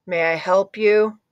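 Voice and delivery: slow, reluctant, unwilling to help; grudging offer. Shown as a demonstration. Grumpy librarian grudgingly greets the new girl, slow and unwilling. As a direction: drag it out like you'd rather not help. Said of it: "in a way that says he doesn't really want to help you".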